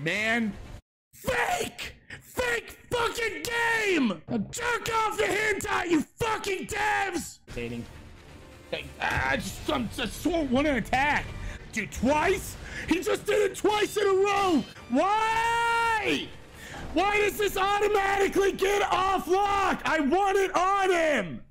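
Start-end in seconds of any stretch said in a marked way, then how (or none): 1.1-7.4 raging gamer. Real, not acted. Yelling at the developers. 11.7-21.4 raging gamer. Real, not acted. Raging at lock-on.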